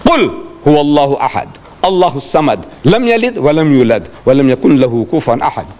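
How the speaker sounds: formal recitation, ringing first word; different level. Acted. Prophet uttering the revealed words, reciting. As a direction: recite it as revealed scripture in Arabic. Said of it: "when he's uttering those words, he's on a different level".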